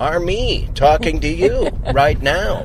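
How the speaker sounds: slow, emphatic listing delivery; movie-phone announcer. Retold or imitated. Parodying movie phone to the co-host, slow announcer. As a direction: spell it out like a cinema recording. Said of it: "movie phone".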